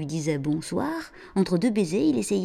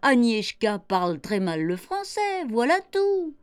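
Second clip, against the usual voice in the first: laughing, higher mother's voice; en riant; 7 semitones higher, slower than usual. Acted. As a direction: laugh off the child's fear. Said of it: "lui répondit en riant". (maman qui rit, amusée)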